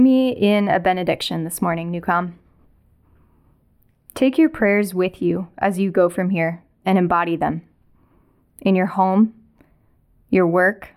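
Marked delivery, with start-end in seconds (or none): 4.1-10.9 solemn closing blessing. Acted. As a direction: bless them gently as they go. Benediction at service end.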